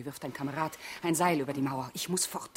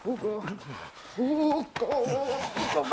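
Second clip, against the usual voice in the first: higher calling voice to wake him; 5 semitones higher, much slower than usual. Acted. Olga calling sleeping Hugo to wake up. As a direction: call his name up the stairs.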